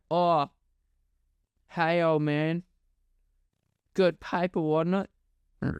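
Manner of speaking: a hint of a cheeky youngster; mock young man. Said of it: "and go".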